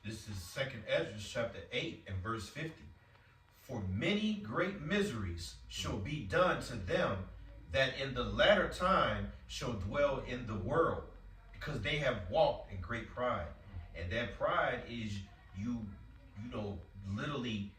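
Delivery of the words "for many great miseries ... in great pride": slow, deliberate Bible reading; scripture reading. Acted. Reading a verse to the group, slow solemn reading. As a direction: lay each phrase out slowly and solemnly.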